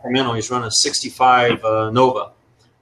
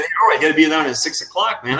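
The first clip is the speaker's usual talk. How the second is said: lightly mimicking the host, pitched up; imitated quote; 4 semitones higher than usual. Guest playfully quoting the host's call-time order, lightly imitating. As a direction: tease by echoing how he said it. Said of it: "I like the way you said".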